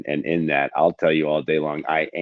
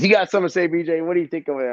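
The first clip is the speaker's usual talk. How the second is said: imitating the boss; 10 semitones higher, 4 dB louder, faster than usual. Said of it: "he goes".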